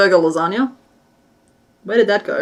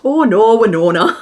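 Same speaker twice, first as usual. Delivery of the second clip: "Oh no, Winona" in a Minnesota lilt, laughing at the end; playful Minnesotan impression; louder, laughing Minnesota line; Minnesotan accent; 2 semitones higher, 5 dB louder than usual. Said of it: "I've never been able to not".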